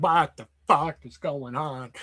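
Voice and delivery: slow, dumbfounded Stifler-style growl, lightly done; a hint of a stunned frat bro. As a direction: drag it out like a baffled party guy. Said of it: "You turn into Stifler from American Wedding".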